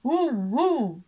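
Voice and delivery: loud woofing bark of a big dog; deep dog bark. A narrator's reading. Narrator imitating the dog barking in the tent, loud woof. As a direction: bark it out like a huge mastiff. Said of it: "basowe szczekanie psa".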